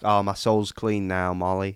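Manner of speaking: put-on slow, drawn-out Southern accent as Ernest; playing the victim in a Southern accent, slowly; accent impression. To his co-host, mimicking Ernest in a Southern accent. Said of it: "did I just kill that accent".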